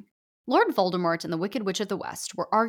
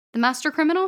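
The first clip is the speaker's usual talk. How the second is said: high, louder rising disbelief on Criminal; incredulous question; 9 semitones higher, 6 dB louder, faster than usual. Acted. Author reading the name on his resume, high incredulous question.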